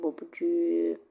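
breathy whispered repeat; whispered echo. Acted. (fısıltıyla yankı)

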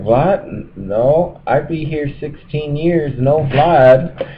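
a light mock Hispanic accent. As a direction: lightly imitate the Hispanic workers. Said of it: "What, what accent is that?".

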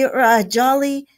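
slow, hesitant repeat left hanging; faltering. A narrator's reading. Toad notices his friends' stern looks, faltering. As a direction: stall on the words, drawn out. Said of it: "Toad's words faltered".

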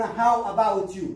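loud, slow How about you؟ like an American film; American movie-style question. Shown as a demonstration. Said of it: "في الأفلام الأمريكية لا يقولون".

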